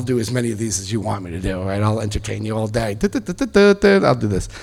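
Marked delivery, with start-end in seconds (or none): 2.9-4.1 high, rhythmic da-da-da; singsong filler syllables. Pretend. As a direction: rattle off playful high nonsense syllables. Imitates a busy routine with nonsense syllables.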